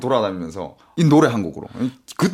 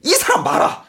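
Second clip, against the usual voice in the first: lightly voiced lottery hawker; slow, hammy street announcer; hawker announcement; 9 semitones higher than usual. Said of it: "크게 광고를 해줘요".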